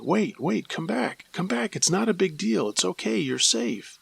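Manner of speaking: high, coaxing calls to come back; pleading big sisters. Retold or imitated. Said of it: "our big sisters chasing after us, saying".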